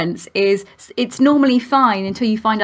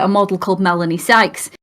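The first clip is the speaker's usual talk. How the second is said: ordinary delivery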